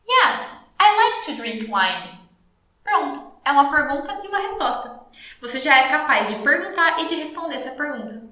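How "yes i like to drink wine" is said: slow model answer. Shown as a demonstration. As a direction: answer slowly, lifting the opening "Yes". (resposta-modelo lenta, com "Yes" agudo)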